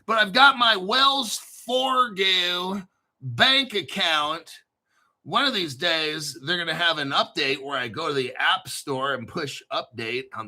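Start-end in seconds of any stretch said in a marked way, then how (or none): 0.0-4.5 slow Southern drawl on Wells Fargo; mild Southern American accent, slowed. Retold or imitated. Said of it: "was that your Southern accent".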